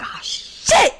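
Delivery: breathless high whispered gasp of dismay. Retold or imitated. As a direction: caught out, gasp it under your breath. Caught by dad, dismay.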